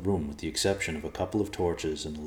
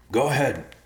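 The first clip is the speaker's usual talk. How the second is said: raised voice; 7 semitones higher, 5 dB louder than usual. Acted. Answering the climber above him.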